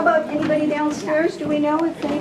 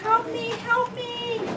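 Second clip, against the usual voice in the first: high, slow, pleading cry for help; desperate plea for help; 8 semitones higher, 5 dB quieter, much slower than usual. Acted. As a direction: beg for help like you're hurt. Drill victim crying for help.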